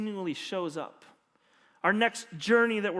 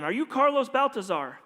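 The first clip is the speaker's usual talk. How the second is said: mock yell across the street, a bit higher; calling out to a stranger, lightly acted; retold yell; 5 semitones higher than usual. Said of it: "yelled at the man".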